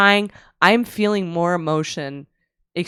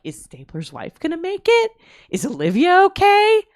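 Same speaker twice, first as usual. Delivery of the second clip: high, worried fan voice pitched way up; anxious high voice; 11 semitones higher, 3 dB louder than usual. Retold or imitated. Reliving the episode to her friend, high anxious voice. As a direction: gasp out the fan's worry, high. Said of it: "I'm like".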